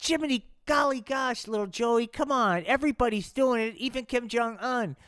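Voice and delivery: put-on high eager coaxing boy; peer-pressure kid voice. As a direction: coax your friend along. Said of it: "Little Donnie goes".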